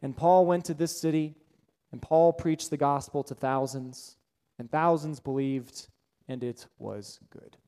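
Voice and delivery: imitating a dry, droning preacher; mock monotone sermon summary. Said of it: "most monotone voice I've ever heard".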